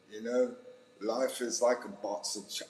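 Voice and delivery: failed attempt at a Southern accent; Forrest Gump. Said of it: "Where's the Southern accent?".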